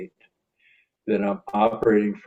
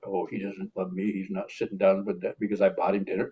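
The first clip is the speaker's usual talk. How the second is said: mock hurt feelings; 2 semitones lower, 6 dB quieter than usual. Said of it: "I didn't take that personal".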